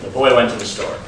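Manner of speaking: level tune, no rise or fall; flat neutral statement; flat declarative. Shown as a demonstration. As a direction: state it flat like a plain fact. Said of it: "there's no up or down flexing".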